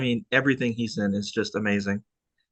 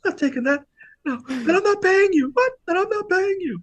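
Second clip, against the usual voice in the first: mock indignation. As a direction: refuse flat out, hammed-up outrage. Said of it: "he's like".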